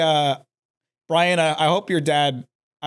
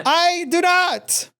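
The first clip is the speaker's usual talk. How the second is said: slow firm refusal; 10 semitones higher, much slower than usual. Acted. Firm mock refusal, drawn out.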